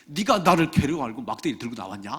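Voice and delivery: mock roar of an angry giant; retold bellow. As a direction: act out Goliath's yell, only moderately loud. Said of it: "확 소리를 질러요".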